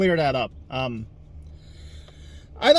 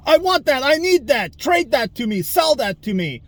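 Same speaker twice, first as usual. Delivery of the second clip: mock greedy commenter; 6 semitones higher than usual. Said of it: "people that are just like".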